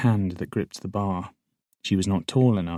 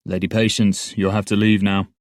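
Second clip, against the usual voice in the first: firm interruption; 5 dB louder than usual. Acted. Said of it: "The guard attempted to break in".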